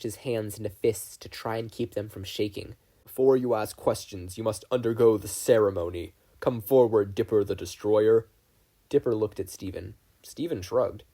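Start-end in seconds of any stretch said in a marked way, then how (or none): 3.0-8.3 louder, commanding chief; booming leader. Acted. Tribal leader calls Dipper forward, loud and commanding.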